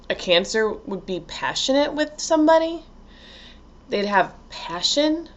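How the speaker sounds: each question lifting at the end in disbelief; mock incredulous questioning. Virgo lover hearing Cancers are passionate, incredulous. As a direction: ask it as if the idea were unheard of.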